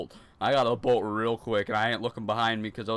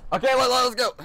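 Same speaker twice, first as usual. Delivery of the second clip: loud, high psych-up, ready to go; pumped up; 12 semitones higher, 7 dB louder than usual. Real, not acted. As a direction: rev yourself up to start again. Gamer psyching up to continue.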